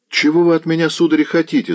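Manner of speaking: put-on high, alarmed young lad; frightened cry. A narrator's reading. Lad grabbed by the old nobleman, high frightened cry. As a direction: cry out scared, pitched well up. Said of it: "закричал перепуганный парнишка".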